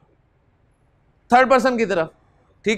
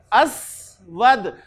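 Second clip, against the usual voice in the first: drawn-out word; 2 semitones lower, much slower than usual. Shown as a demonstration. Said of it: "असवद पे क्या पढ़ूं जी मैं".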